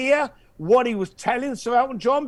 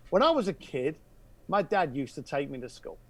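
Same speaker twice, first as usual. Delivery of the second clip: softer, a touch of hushed confiding; goes quiet; 4 semitones lower, 6 dB quieter than usual. Retold or imitated. Caller confiding his childhood memory, quietly. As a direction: speak it low and inward. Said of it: "He goes quiet".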